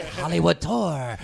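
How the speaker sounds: a hammed-up street tout calling out; street hawker call.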